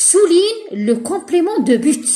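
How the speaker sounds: slow, emphatic reading of the instruction; teacher dictating slowly; slow dictation. Shown as a demonstration. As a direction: read it out slowly like dictating to pupils. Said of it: "teacher reads exercise instruction".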